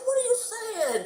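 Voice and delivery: high, slow, laughing disbelief; half-laughing outrage at the word; appalled protest. Retold or imitated. To her neighbor, scolding the slang, high laughing disbelief.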